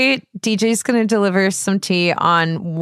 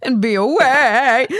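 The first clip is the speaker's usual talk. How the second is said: mock crying; 5 semitones higher, 3 dB louder, slower than usual. Mock whine about absence.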